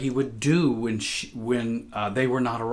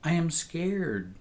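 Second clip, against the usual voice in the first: put-on higher, small child's voice, timid and pleading; scared little girl; 7 semitones higher than usual. Little girl begging her mother to sleep with her, timid and high. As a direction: ask like a frightened little girl at night. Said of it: "I said".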